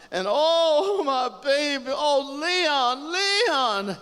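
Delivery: high wailing cry of grief; loud lament. Acted. Woman over her shot Leon, wailing lament. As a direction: cry out for a lost loved one at full voice. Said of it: "She lamented".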